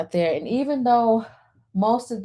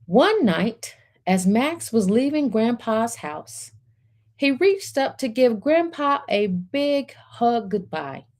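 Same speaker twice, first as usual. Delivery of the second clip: storybook narration; 3 semitones higher than usual. A narrator's reading. Reading picture book aloud.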